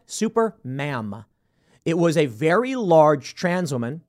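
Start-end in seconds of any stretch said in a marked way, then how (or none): 0.1-1.2 Super Ma'am drawn out slowly. Shown as a demonstration. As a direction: stretch out Super Ma'am, each syllable long. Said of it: "Remember that?".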